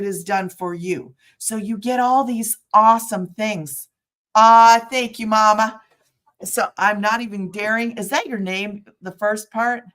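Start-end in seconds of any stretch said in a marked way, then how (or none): 4.3-5.8 delighted thanks. Real, not acted. Thanking a viewer mid-stream.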